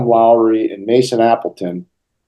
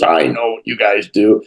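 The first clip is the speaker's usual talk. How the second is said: gruff GM; 2 semitones higher than usual. Retold or imitated. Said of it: "He's really gruff".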